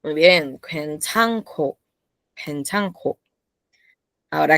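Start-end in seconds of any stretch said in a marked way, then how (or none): 0.6-3.2 slow model reading. Shown as a demonstration. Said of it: "¿cómo suena?".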